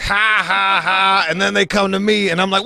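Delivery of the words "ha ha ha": high, spelled-out mock laugh; imitated laughing. Injured man laughing at his friend, mimicked high laugh. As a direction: act out helpless laughing on a high pitch. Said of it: "laughing like".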